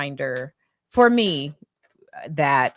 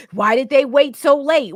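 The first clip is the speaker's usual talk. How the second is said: mocking question; 9 semitones higher, 7 dB louder than usual. Mocking critics of the girls.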